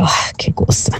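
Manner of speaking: soft whispered swoon with a sigh of desire.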